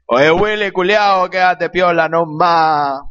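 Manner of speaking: mock Chilean slang delivery; cat character. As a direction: lightly voice a cheeky cartoon cat. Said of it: "el gato le dice".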